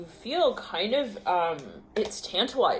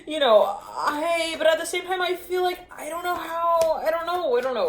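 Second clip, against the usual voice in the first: out of breath; 8 semitones higher, 3 dB louder than usual. Real, not acted. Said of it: "Let me catch my breath".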